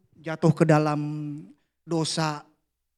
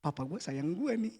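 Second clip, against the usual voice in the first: quiet prayer; 2 semitones lower, 8 dB quieter than usual. Pretend.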